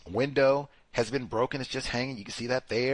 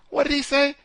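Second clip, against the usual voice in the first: higher, louder puzzled ask then answer; mock courtroom question; 13 semitones higher, 5 dB louder than usual. Lawyer questioning the clip's audio, lightly acted. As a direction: act out the courtroom exchange. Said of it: "the speaker".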